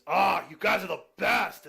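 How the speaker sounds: slow, high, loud gushing thanks; hammed-up delight. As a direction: play a character thrilled with a gift. Voiced character delighted by the blogfish.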